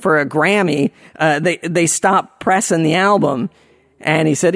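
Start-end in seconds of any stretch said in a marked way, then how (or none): none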